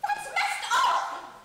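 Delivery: high, slow shocked squeal; shocked disbelief. Real, not acted. Shocked at the fairy tale.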